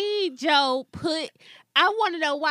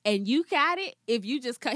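slow seductive Joe; 3 semitones lower than usual.

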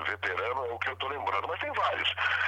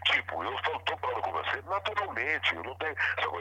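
ordinary talk, nothing marked

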